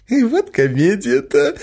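plain reading voice

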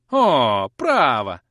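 громкий вызывающий вскрик; вскрикни, выпрямившись во весь рост. A narrator's reading. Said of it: "вскричала Сусанна". (служанка громко вскрикивает в ответ на увольнение)

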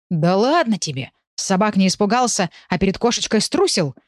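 lightly mocking tease; mocking snort. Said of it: "насмешливо пофыркал Черныш".

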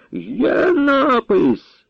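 high, very slow triumphant cry; captain exclaiming the mark exists; exclaimed. A narrator's reading. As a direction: shout that the mark is there. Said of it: "вигукнув сотник".

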